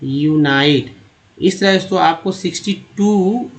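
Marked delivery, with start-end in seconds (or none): 0.0-1.0 "यूनाइट" starting yoo-nai; uni as "yoo-nai". Shown as a demonstration. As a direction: say the "uni" of "यूनाइट" with a long i, as in eye. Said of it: "यूनाई बोलते हैं". ("यूनाइट" में "यूनाई" की ध्वनि)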